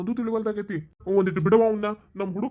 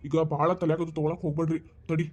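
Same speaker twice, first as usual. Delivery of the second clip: calming reassurance; 5 semitones lower than usual. Acted. Elder calms the panicking women.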